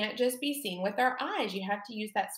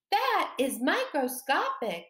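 That is microscopic in a higher, tiny voice; little voice; 5 semitones higher than usual. Shown as a demonstration. Teacher modelling the little voice for the game: high and tiny. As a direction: say it like something too small to see. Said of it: "your little, little voice".

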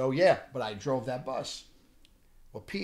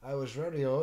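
put-on British accent; 3 dB quieter than usual. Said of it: "he starts talking with this accent".

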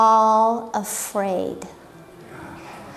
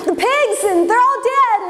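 high, tumbling, breathless gossip; excited villager; 9 semitones higher, much faster than usual. Retold or imitated. Villagers telling townsfolk about the pigs, excited. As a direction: rattle off the shocking news.

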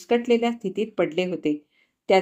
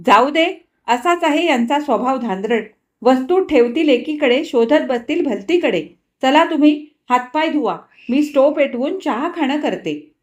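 higher, louder chatty housewife; Nirupama brushing it off; 5 semitones higher, 4 dB louder than usual. Acted. Nirupama dismissing husband's clumsiness to guest, higher voice. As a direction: shrug him off to the guest.

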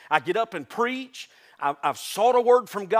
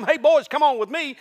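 casual call; 6 semitones higher, 5 dB louder than usual. Acted. Jesus calling the fishermen.

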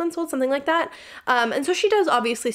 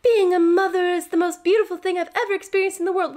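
much higher, louder, dreamy mock gush; gushing mom parody; 9 semitones higher, 4 dB louder than usual. Vlogger mocking moms who call motherhood purely beautiful, high gushing parody. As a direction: overdo the starry-eyed new mom. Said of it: "you either have to be like".

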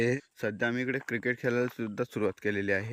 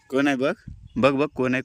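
eager, louder egging on; excited urging; 2 semitones higher, 5 dB louder than usual. Real, not acted. Owner egging his dog on at a burrow, excited urging. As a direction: hype the dog up to look.

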